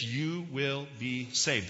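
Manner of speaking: YOU WILL BE SAVED slowly, each word set apart; emphatic. Shown as a demonstration. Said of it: "That's emphatic".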